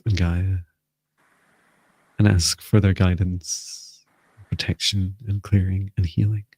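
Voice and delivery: measured, even-pitched guided meditation voice; guided invocation. Real, not acted. Healer calling in light and protection for the group, guided invocation. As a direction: lead them steadily through it, pausing between phrases.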